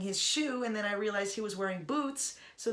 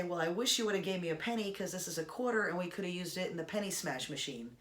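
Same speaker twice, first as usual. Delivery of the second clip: sarcastic; faster than usual. Retold or imitated. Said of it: "me being sarcastic and a little bit silly".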